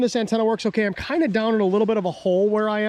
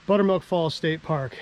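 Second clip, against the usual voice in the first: ordinary delivery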